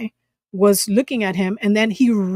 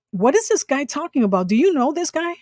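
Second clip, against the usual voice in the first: retold bewildered questioning, higher pitched; acting clueless; 5 semitones higher than usual. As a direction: play baffled to a friend, pitch lifting. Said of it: "of course I had to act".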